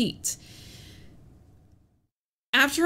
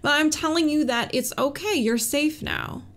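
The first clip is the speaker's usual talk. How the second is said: higher, gentle comforting voice; soothing a child; 5 semitones higher than usual. Retold or imitated. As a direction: comfort a frightened little kid. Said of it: "It's like".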